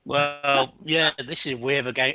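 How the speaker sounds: talking through a mouthful; chewing while speaking; mouth full. Real, not acted. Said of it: "I'm talking with my mouth full".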